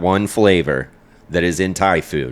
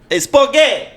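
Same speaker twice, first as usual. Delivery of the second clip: squeaky cartoon voice, much higher; silly high voice; 4 dB louder than usual. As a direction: toss it off in a goofy squeal. Silly echo of spaghetti.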